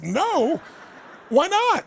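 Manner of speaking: pushing back, half disbelieving; retold surprise. Young man pushing back, incredulous.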